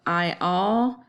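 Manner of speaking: slow, pausing at each backslash; slow, deliberate split into feet; reading the foot breaks. Shown as a demonstration. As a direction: mark off every two syllables slowly. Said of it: "put a backslash after every second syllable".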